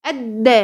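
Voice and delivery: الدا with the doubled د pushed hard; mistaken, punched doubling in الدا; over-pressed shadda. Shown as a demonstration. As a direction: press too forcefully on the د of الدا. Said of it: "تعملي كده".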